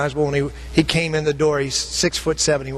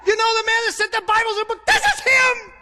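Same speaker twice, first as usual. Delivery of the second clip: retold yell. Pastor hails three women across the clearing, excited shout. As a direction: call out to the women far off, thrilled. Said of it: "He, he yelled at them".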